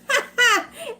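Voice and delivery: high, loud sudden laugh; bright surprised laugh at the chat; burst of laughter. Real, not acted. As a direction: laugh out at the comment. Reacting to a chat comment.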